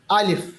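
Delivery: अलिफ voiced from deep inside with a long open a; Arabic alif demo. Shown as a demonstration. Teacher shows students how the voice travels out on alif. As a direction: let अलिफ flow out from the empty mouth cavity. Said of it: "एक आवाज़ अंदर से निकल के बाहर तक जाती है".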